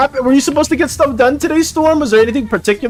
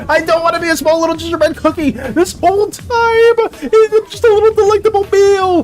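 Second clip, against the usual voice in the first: playful mock anger; 4 semitones higher than usual. Real, not acted. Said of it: "I'm so mad".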